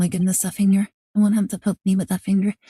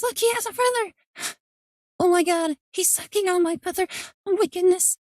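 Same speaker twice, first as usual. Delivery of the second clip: excited squealing; 8 semitones higher than usual. Real, not acted. Fangirling at a game character.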